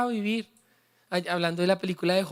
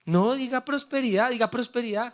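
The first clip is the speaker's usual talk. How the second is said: louder rallying call; 3 semitones higher than usual. Real, not acted. Pastor urging the congregation to say it with force. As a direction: push "prosperidad" out with energy to the crowd. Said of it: "usted dice prosperidad como si no tuviera".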